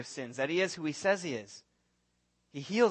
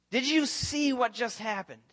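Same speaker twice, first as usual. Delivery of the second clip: much higher, louder, slow amazed cry; awestruck disciples; 8 semitones higher, 6 dB louder, slower than usual. Acted. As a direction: cry out in stunned wonder. Disciples marvel at Jesus.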